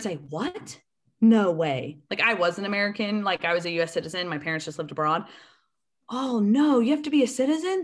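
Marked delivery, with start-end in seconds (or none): 0.3-2.0 feigned shock. Retold or imitated. Feigning shock at citizenship rule. 6.1-7.8 loud, high mock shock; feigned dismay. Cadet playing along with people explaining citizenship, feigned dismay.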